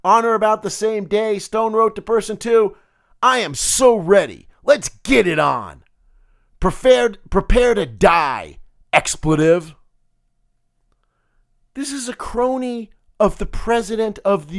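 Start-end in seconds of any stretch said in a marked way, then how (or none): 3.2-9.7 louder, slower taunting read; picking a fight, half-hearted mobster; a hint of gangster bravado; mild mock mobster challenge. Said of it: "I was gonna try to do that in my gravelly mobster voice".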